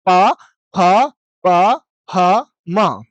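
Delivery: प, फ, म with both lips pressed together; crisp bilabial प, फ, म; clear lip sounds. Shown as a demonstration. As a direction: close the lips fully on प and फ and म. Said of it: "प का उच्चारण करो".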